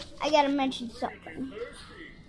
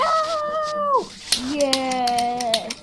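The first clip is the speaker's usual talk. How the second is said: wild unhinged ranting; 6 dB louder than usual. Acted. Arguing with himself in voices.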